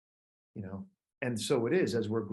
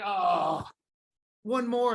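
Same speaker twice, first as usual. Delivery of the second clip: calling for more; 7 semitones higher, much slower than usual. Retold or imitated. Fan calling for an encore.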